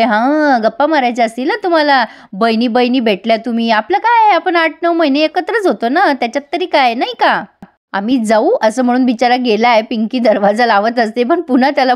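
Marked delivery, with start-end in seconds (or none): 0.0-8.5 annoyed husband. Retold or imitated. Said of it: "खूप चिडतोय".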